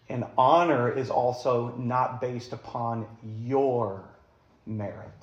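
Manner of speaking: your leaned on, slow and deliberate; stress on YOUR. Shown as a demonstration. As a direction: lean into the word your. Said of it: "I'm emphasizing the word your".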